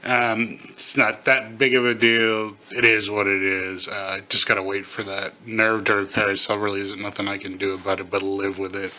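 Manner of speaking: slightly slurred, half the face paralysed; Bell's palsy speech. Real, not acted. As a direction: talk with one side of the mouth not moving. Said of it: "see how bad it is or how bad I actually sound".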